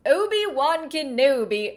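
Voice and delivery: put-on slight British accent. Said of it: "there's me doing the accent a little bit".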